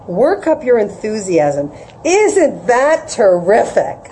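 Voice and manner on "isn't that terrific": enthusiastic parents. Retold or imitated. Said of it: "That's what my parents would say".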